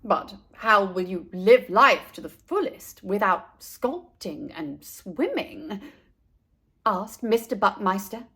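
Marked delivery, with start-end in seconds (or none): 0.0-5.8 a hint of a stern father; lightly voiced father. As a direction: ask it low and earnest.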